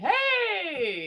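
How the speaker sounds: high, drawn-out squeal of hello; excited greeting. Real, not acted. Excited greeting of arriving guest.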